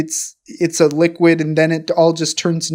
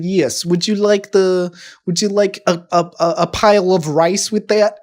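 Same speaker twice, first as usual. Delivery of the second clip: loosely faked Russian accent; weird Russian accent. Shopkeeper offering rice to a customer, in a weird Russian accent. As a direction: stumble along in a mock Russian accent. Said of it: "like, a weird Russian thing".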